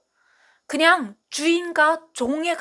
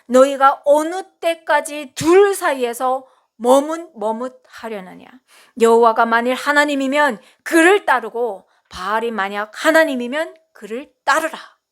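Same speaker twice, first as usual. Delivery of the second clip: Elijah rebuking the people; 6 dB louder than usual. Acted. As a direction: call the people out like Elijah on the mountain. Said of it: "엘리야가 그 백성들에게 말합니다".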